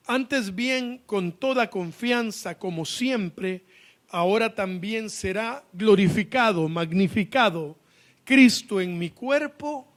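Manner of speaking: slow, deliberate Bible reading; emphatic scripture reading. Acted. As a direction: read the verse out to the congregation, slowing toward the end. Reads scripture aloud. (lectura bíblica enfática y pausada)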